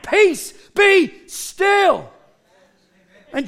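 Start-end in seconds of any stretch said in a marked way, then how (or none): 0.0-2.1 raised, higher commanding shout; threatening command. Acted. Jesus commands the wind and waves, threatening. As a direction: order it sternly, word by word. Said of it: "A threatening command".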